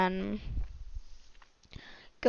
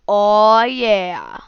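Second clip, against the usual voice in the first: excited; 8 dB louder than usual. Retold or imitated. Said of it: "Lumpy is like".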